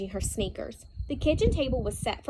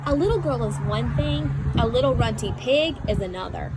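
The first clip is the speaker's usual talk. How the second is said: louder, firm fatherly explanation; 6 dB louder than usual. Acted. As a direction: lay it down firmly for her. Father explains firmly to daughter.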